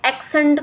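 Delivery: एक्सेंट said with a faulty vowel or stress; mispronounced word. Shown as a demonstration. Teacher showing a bad model of speech, mispronounced. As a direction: say एक्सेंट as a teacher who gets it wrong. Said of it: "गलत एक्सेंट use कर रहा है".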